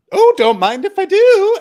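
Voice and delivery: way up high and loud, hammed-up dainty voice; mock posh grab. Retelling Ricard taking papaya, hammed-up high voice. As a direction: prance through it like a cheeky guest.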